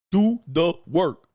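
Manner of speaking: loud, slow caveman grunt. Shown as a demonstration. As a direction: bark it like a caveman. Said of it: "Ooga booga".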